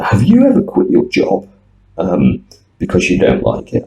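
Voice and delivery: put-on quoting the Taiwanese nurse in a Chinese accent. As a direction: imitate a student's hard Chinese accent, lightly. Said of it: "with a very hard Chinese accent".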